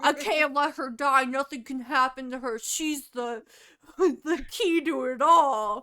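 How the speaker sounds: loud, overwrought brooding hero; hammed-up anguish, slowing as it builds; Edward Cullen. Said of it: "he's like Edward Cullen".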